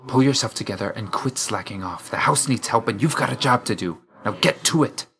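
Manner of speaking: scolding that climbs in pitch; stern scolding. Acted. To Hypnos, who is slacking off on the job, stern scolding.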